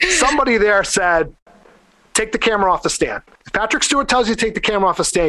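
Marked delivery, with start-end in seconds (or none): 2.1-5.3 quick, higher-pitched retold order; urgent insistence. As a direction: rattle off a mock urgent instruction. Retold bystander urges the crew.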